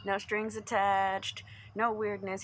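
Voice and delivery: slow and deliberate; slow emphasis. Real, not acted. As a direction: spell out each condition slowly. Spelling out the offer slowly.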